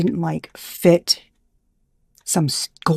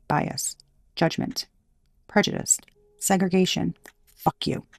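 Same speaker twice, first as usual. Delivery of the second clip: fading to a whisper; 6 dB quieter than usual. Real, not acted. Vlogger hissing at bigots, fading to a whisper. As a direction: list trails off into a hushed fuck you.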